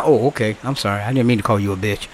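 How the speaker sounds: hammed-up timid backdown; mock meek apology. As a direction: play the caller suddenly tamed and apologetic.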